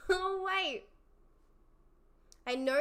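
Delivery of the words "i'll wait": laughing tease. Real, not acted. Teasing chat again, laughing.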